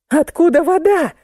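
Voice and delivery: high-pitched mild yell; yelling while spluttering. A narrator's reading. Drenched woman demands where water comes from, yelling. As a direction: cry out from under the water. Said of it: "отплёвываясь, заорала я".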